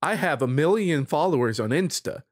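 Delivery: mock-haughty outrage; affronted and self-important, in jest; indignant attitude. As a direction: play the offended celebrity, lightly hammed up. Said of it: "it's that attitude".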